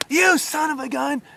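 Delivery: barking scolding. Retold or imitated. Woman scolds bartenders over a cup, barking. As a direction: bark it out, scolding on someone's behalf. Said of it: "just barking".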